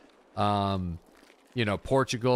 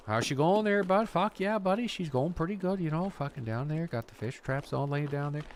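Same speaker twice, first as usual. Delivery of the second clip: put-on East Coast Newfie accent; 6 semitones higher than usual. Imitating a Newfoundland fisherman chatting with a buddy, in a high Newfie accent. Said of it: "a lot of Newfies".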